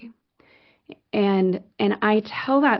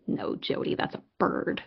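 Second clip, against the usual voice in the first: mock deadpan correction; 7 dB quieter than usual. Deadpan correction in retold exchange.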